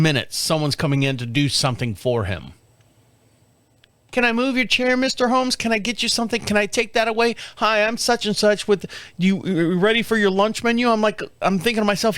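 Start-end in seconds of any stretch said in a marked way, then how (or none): 4.1-10.9 mock chirpy nurse.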